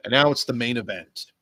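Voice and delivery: ordinary talk, nothing marked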